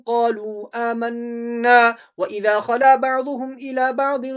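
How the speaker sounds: measured melodic tajweed chant; Quran recitation. Shown as a demonstration. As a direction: chant the verses steadily, stretching the endings. Recites the whole passage. (ترتیل سے قرآن کی تلاوت)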